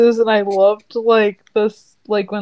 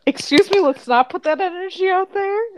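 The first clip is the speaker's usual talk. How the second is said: indignant; 9 semitones higher than usual. Retold or imitated. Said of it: "is, like, my vibe".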